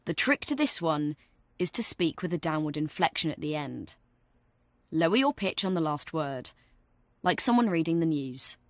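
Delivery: serious. Shown as a demonstration. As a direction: settle down like someone reading the news. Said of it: "be more serious".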